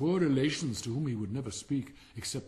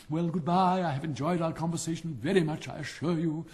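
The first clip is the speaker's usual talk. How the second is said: chatty boastful frog; 3 semitones higher than usual. Acted. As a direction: boast about the glee club. Frog character voice.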